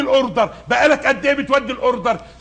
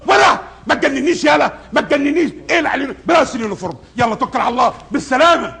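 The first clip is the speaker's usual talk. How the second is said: angry shouting. Acted. Boss firing employee.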